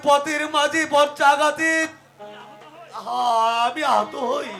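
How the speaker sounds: dying groans. Acted. Dying man groans, struck by lightning.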